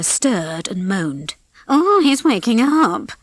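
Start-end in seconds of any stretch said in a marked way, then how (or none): 1.7-3.1 high, drawn-out cry; excited cry. A narrator's reading. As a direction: cry the news out slowly. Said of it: "cried Ducky".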